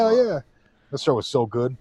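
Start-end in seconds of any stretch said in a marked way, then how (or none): 0.0-0.4 high, eager acceptance; hammed-up delight. Customer offered free baklava, hammed-up delight. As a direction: jump on the offer, pitched way up.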